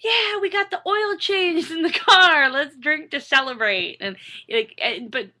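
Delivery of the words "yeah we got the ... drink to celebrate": high, loud, slow mock cheer over nothing; giddy party voice. Imitating her younger self cheering her husband to drink. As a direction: ham up a couple toasting an oil change. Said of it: "we'd just be like".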